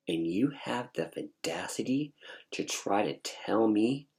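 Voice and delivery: affronted, pointed challenge; indignant attitude. Retold or imitated. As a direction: confront your mother over her nerve. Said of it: "with this attitude".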